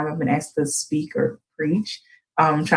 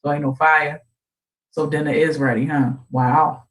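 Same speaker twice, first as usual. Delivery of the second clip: lower, deadpan sarcasm; mock the empty kitchen dryly; a hint of an annoyed dad; dry sarcastic dad; 4 semitones lower than usual.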